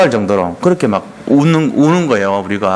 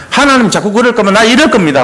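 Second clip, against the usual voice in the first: higher-pitched mock ultimatum; arguing back; 6 semitones higher than usual. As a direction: act out defiant arguing with God. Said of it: "따질 때가 많다니까". (높은 톤으로 대들듯이)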